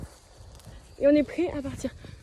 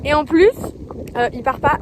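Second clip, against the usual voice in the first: raised voice against the wind; shouting over wind; 7 dB louder than usual. Real, not acted. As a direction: speak up loudly over gusts. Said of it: "je vous parle comme ça parce que".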